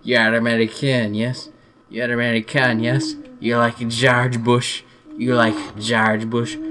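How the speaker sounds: loud, hammed-up French accent; mock French accent. Frenchman accosts an American at a bar, mock French accent. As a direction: stretch it out like a pushy French barfly, thick French accent. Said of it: "walk up to a French kind of bar".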